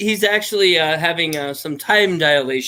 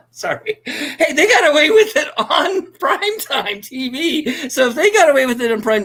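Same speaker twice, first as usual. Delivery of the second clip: high voice filter; 10 semitones higher, slower than usual. Real, not acted. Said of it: "still on the filter".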